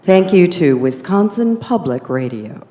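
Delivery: smooth on-air announcer read; public radio voice. Shown as a demonstration. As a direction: sign off like a radio host. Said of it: "demonstrating I still have my public radio voice".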